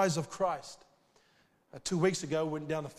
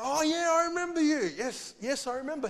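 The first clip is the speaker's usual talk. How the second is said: high, loud sudden recall; light up as he remembers; surprised recognition; 10 semitones higher, 4 dB louder than usual. Retold or imitated. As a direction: suddenly place his face. Recognizing the man from the cruise.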